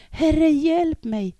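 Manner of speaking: high, loud and slow desperate cry; drowning man's plea, pitched high and loud; crying out for help. Acted. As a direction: call out as if sinking in the water. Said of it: "Han började sjunka och ropade".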